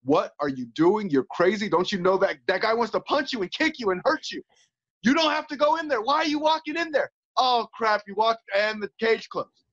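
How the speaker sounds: nervous doubting voice speeding up; negative inner voice. Retold or imitated. Fighter voices his inner doubts before entering the cage, mildly panicky. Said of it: "negative voices ... yelling at us like".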